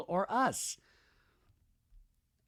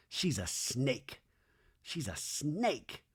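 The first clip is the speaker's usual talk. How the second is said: slow, much softer aside, imitated; sneaky accusation; 9 dB quieter, much slower than usual. Danny watches Janet from afar, soft slow mock accusation. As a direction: say it softly and slowly, spaced out.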